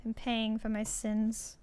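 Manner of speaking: quiet, slow, wincing through back pain; having a back spasm. Real, not acted. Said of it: "I hurt my back".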